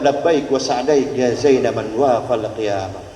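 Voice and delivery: slow, low, solemn Arabic; lizard's reply. Retold or imitated. The lizard answers the Prophet, slow and solemn. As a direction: intone it like a devout answer.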